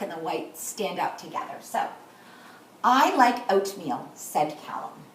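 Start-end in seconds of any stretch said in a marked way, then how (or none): 2.8-4.1 slow modelled quote. Shown as a demonstration. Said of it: "should be smooth and fast".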